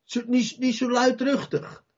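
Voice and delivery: light mock reprimand; hushing. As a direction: shush him, mildly annoyed. Crowd hushing the blind man.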